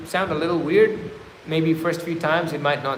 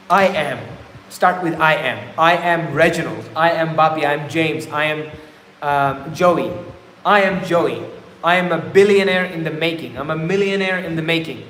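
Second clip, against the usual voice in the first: firm, louder declarations of self; confident affirmation; 3 dB louder than usual. Shown as a demonstration. Speaker shows viewers how to affirm themselves, firm and proud. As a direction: announce who you are with conviction. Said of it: "simply just say something like this".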